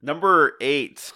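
slow, high and loud; game show host. Pretend. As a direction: drag out the announcement. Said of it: "like a game show host".

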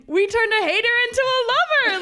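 high, loud, laughing triumph; gleeful retold celebration; overjoyed. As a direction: crow it with delight, nearly squealing. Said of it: "so much joy to us".

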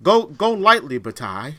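a hint of stagey Shakespearean actor; mock Shakespearean villager. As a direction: parody a pious alien villager from a TV show. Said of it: "they speak like Shakespearean actors".

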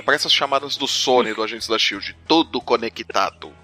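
usual speaking voice

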